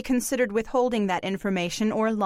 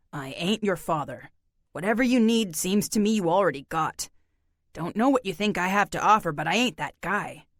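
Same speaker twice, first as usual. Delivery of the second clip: weary drifter voice; 2 semitones lower than usual. Acted. Narrator voices John.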